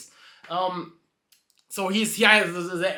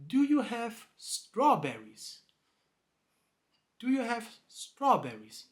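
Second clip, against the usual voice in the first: soft, slow put-on horse voice; slowly and softly ask as the horse; 5 semitones higher, 5 dB quieter than usual. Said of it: "just ask again".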